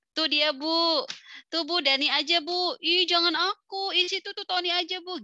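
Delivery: put-on high, loud whiny kid shifting the blame; be a kid pushing it onto a classmate; kids pointing at each other. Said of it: "mereka saling nunjuk-nunjuk".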